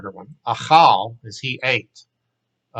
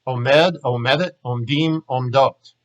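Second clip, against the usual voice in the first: quickly; 3 dB louder than usual. Shown as a demonstration. Hebrew teacher reciting the full verb set at natural speed, quickly. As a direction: run Omed, omedet, omdim, omdot together in one quick breath. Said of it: "Now I'm gonna say 'em quickly".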